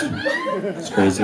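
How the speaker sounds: slow, very high squeal; squealed crazy. Acted. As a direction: squeak it out in mock disbelief. Mock market panic.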